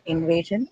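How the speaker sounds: "Invasion" with the beat on VA; stress on second syllable. Shown as a demonstration. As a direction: lean on the middle syllable of "Invasion": in-VA-sion. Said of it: "is to be on way".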